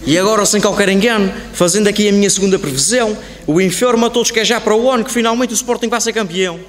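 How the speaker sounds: loud, declaimed fortune-teller's prediction; proclaiming a prophecy. Acted. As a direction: announce wonders to the whole hall, loudly. Fortune-teller announces his second prediction.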